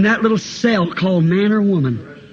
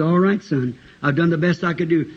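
resigned governor; 4 semitones lower, 3 dB quieter than usual. Acted. Governor gives up on the boy.

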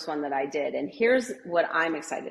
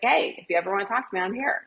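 casual offer; 3 semitones higher, faster than usual. Shown as a demonstration. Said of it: "And then just say".

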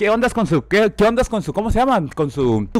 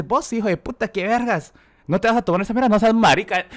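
mimicking pushy friends; 3 semitones higher, 4 dB quieter than usual. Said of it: "me empiezan a decir".

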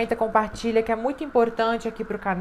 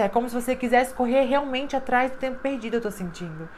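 ordinary talk, nothing marked

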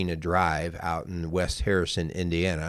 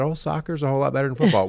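naive soccer mom; 7 semitones higher, 3 dB louder, much faster than usual. Retold or imitated. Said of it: "we always thought".

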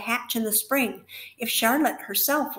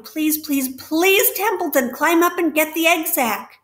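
higher and louder, fast urgent begging; desperate pleading; 5 semitones higher, 6 dB louder than usual. Acted. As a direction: plead with the rat as if time is running out. Wilbur's desperate pleading to the rat.

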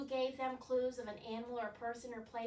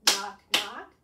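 loud punched knock, knock; demonstrated knocks; 4 semitones lower, 11 dB louder than usual. Shown as a demonstration. Teacher shows the children the knocking motion, loud. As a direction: knock out each word loudly. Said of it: "Can you do this?".

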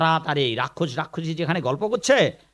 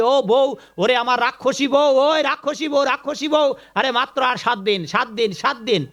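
high-pitched, mildly raised call to a wife; mock holler, pitched up; excited calling out; 5 semitones higher than usual. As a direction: imitate an ogre hollering for his wife. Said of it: "বউকে চিৎকার দিয়ে বলছে".

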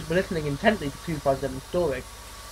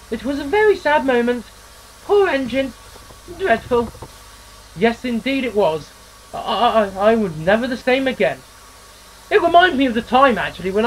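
a chirpy railwayman spinning a yarn; engine character voice; 5 semitones higher than usual. Acted.

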